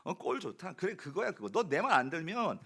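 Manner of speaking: mock scolding of a lost sheep; half-acted I-told-you-so telling off; preacher imitates a shepherd berating his lost sheep, mock scolding. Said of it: "네, 이랬을 것 같아요".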